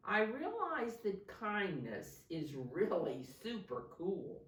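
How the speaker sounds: put-on clear, projected story reading to children; picture-book narration. A narrator's reading. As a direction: read it out expressively, stressing key words. Reads picture book aloud.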